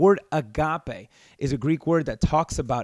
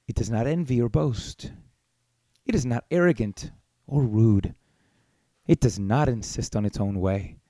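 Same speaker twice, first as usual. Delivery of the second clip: gentle wedding reading; 3 semitones lower than usual. Shown as a demonstration. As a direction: savour each line like a gentle blessing. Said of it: "That's how we read it in our wedding ceremonies".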